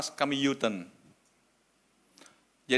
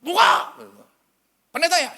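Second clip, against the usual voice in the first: high, loud demanding yell; aggressive shouting; 11 dB louder than usual. Retold or imitated. Burly men at midnight demand the pastor open up, shouting. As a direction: shout it like banging on a door. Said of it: "empat orang badan kekar menggedor rumah".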